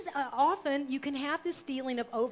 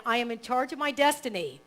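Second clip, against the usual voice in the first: affirmation read; 5 dB louder than usual. Shown as a demonstration. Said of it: "I'll read that one line".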